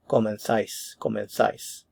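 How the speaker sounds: comenzáis with the z as "th", repeated; Spain pronunciation. Shown as a demonstration. Teacher showing Spain's Z sound, "th" in comenzáis. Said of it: "different pronunciation in Spain for the Z sound".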